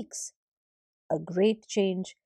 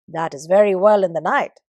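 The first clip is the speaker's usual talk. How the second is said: complaining; 7 dB louder than usual. Acted. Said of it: "said the heavens".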